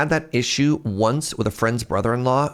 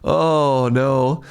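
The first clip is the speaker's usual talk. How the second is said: laughing; 6 semitones higher, much slower than usual. Real, not acted. Laughing at own story.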